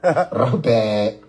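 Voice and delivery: "Rahuba" very slow and low; slow low Rahuba demo; another tone. Shown as a demonstration. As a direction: drag "Rahuba" out slowly, low. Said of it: "That's another tone".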